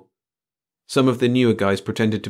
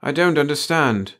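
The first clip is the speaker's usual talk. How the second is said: faltering; 6 semitones higher, 3 dB louder than usual. A narrator's reading. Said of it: "the chief faltered".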